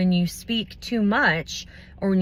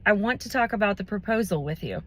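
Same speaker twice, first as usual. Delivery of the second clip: assertive, confident; 2 semitones higher, faster than usual. Shown as a demonstration. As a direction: direct and brisk, no hesitation. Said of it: "in an assertive and confident voice".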